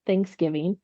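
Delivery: "Thanksgiving" with the weight on THANKS; husband's emphasis. Retold or imitated. Wife imitating how husband says Thanksgiving, THANKS emphasized. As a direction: stress the first syllable of Thanksgiving. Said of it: "he emphasizes thanks".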